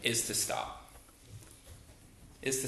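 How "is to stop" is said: whispered, hushed emphasis; breathy whispered is to stop. Shown as a demonstration. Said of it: "the first thing that Jesus tells us".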